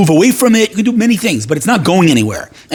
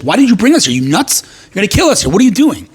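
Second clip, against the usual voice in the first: higher, exasperated mock protest; acted complaint; 6 semitones higher than usual. Israelites at the sea turning on Moses, acted exasperation. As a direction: plead and accuse in a retold quarrel. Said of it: "They turn to Moses and they say".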